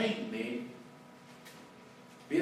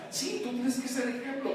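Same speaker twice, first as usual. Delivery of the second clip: gentle voice of God; 9 semitones higher than usual. Retold or imitated. God reminding the pastor to be an example, gently higher. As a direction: patiently correct him. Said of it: "Dios me dice".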